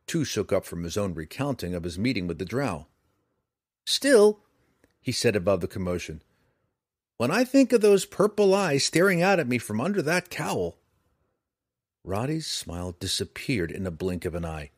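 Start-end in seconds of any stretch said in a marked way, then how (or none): 3.8-10.8 high, loud and shaken; raised over noise. A narrator's reading. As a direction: shout it over the crowd. Shaken storyteller over commotion.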